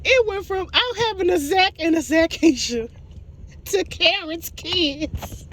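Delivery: high-pitched, slowed by real laughter; laughing through words. Real, not acted. Recapper recaps the twins turning into Karen's kids, laughing. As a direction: struggle to get the sentence out while laughing. Still cracking up over the story.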